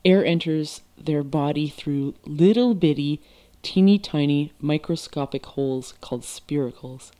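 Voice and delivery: reading aloud. Acted. Reads the book aloud.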